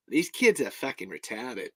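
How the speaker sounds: soft put-on Aussie accent; Australian accent. Shown as a demonstration. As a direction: say it Aussie, holding back a laugh. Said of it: "if I do it in an accent".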